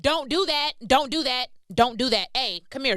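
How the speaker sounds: clear close voice. Shown as a demonstration. God's voice heard up close, a loud, clear "Don't do that". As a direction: say "Don't do that" loud and right in the ear. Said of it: "When you this close and you can hear his voice".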